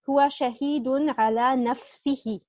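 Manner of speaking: هو شهيد على نفسه read slowly, word by word; slow careful reading. Shown as a demonstration. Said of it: "our related to khabar is على نفسه".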